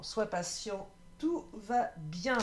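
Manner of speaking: slow, tender reassurance; gentle reassurance. Shown as a demonstration. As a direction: say it like a calm promise that all is well. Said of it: "euh, ouais, vraiment".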